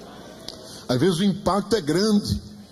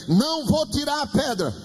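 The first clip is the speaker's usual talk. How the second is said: lightly voiced God, firm and raised in pitch; God's refusal; 6 semitones higher than usual. God refusing the dreamer's plea, lightly acted firm refusal. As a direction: answer as God with an emphatic no. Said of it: "ele ouviu Deus dizendo a ele".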